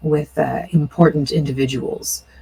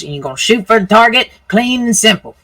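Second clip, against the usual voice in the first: lightly voiced old organizer, quick and higher; rough old man explaining; 4 semitones higher than usual. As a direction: lay out the rules as a rough old-timer, lightly played.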